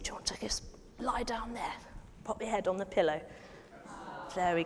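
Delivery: hushed whisper so he stays asleep. Acted. Telling the children Jesus is asleep, whispered. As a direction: breathe the words, no voice.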